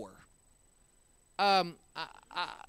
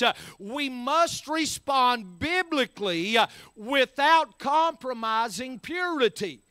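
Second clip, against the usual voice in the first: forceful, punchy sermon delivery; preaching; 4 semitones higher, 4 dB louder than usual. Real, not acted. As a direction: drive each phrase home from the pulpit.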